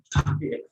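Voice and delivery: soft little chuckle; short laugh. Real, not acted. Trainer after voicing the disappointed wife, soft chuckle. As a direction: chuckle briefly at your own joke.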